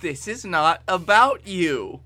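lightly voiced, deliberate interruption; Austin voice. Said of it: "I love your Austin voice".

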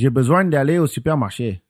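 southern French, nasal and flowy, besoin as bezwang; southern French accent. Shown as a demonstration. Showing the friend southern French, flowy and nasal. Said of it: "very flowy, a little more nasally".

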